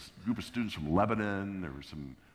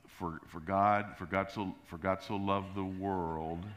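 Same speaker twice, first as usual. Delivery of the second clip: slow, halting recital; tentative, dragged-out opening line; hesitant stumbling start; slower than usual. Retold or imitated. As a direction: falter into the verse, drawing it out. Nervous preacher stumbling through verse.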